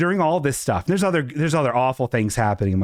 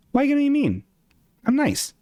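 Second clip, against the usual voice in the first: high whiny protest; 13 semitones higher, faster than usual. Retold or imitated.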